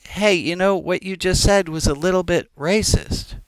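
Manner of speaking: easy, matter-of-fact heads-up; casual and light. Shown as a demonstration. Pointing out a racist remark to a friend, casually and lightly. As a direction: mention it as lightly as broccoli in teeth. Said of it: "can you just say it the same way you would say, "You got some broccoli".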